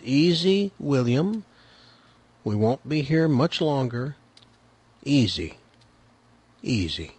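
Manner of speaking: calm, soft and soothing, fading out; steady grandpa hushing a toddler; very controlled voice. Retold or imitated. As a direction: soothe a screaming child without losing your cool. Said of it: "is in a very controlled voice".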